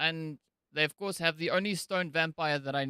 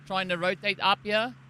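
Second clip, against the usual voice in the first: put-on commentary in a South African accent. Caster commentating the match in a South African accent.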